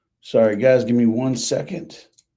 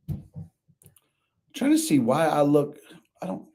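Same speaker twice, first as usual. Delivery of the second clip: echoey. Real, not acted. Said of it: "I sound a bit echoey today".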